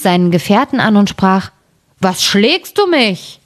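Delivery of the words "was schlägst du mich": slow, sleepy giant voice; a drowsy giant grumbling at his mate; grumpy giant. Acted. Woken giant accuses his companion, slow and sleepy.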